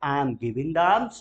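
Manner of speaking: slow, clear, word by word; slow model answer. Shown as a demonstration. Teacher models the answer for students to repeat, slow. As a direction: drill it slowly. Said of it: "answer देना हो".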